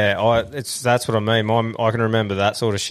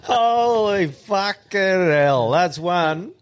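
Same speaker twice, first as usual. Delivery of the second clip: laughing; 7 semitones higher, much slower than usual. Real, not acted. Reacting to crude punchline.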